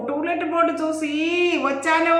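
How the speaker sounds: shouting the line again to the landlord. Acted. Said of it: "సాధ్యమైనంత గట్టిగా అన్నాను".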